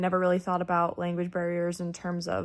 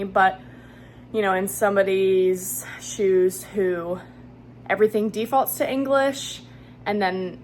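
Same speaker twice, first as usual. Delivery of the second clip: out of breath after a walk. Real, not acted. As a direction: talk through breathing hard. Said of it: "Sorry, I'm a little bit out of breath".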